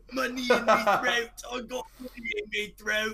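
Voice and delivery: hammed-up little British boy, repeating himself; British child impression. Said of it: "his voice was so deep".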